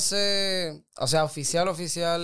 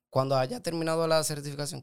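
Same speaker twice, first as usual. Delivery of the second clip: voice cracking. Real, not acted. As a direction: voice cracks mid-phrase. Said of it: "qué gallo me salió".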